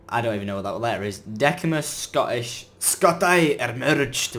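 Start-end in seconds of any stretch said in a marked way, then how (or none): 1.2-4.4 slow, lightly put-on Scottish accent; a hint of Scottish read-aloud. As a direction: read it like a hammy Scotsman. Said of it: "We're going Scottish".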